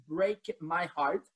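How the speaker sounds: English title in a peculiar accent; slow it down in an odd English accent. Real, not acted. Co-host giving the quiz answer, peculiar English accent. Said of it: "mon accent aussi est particulier".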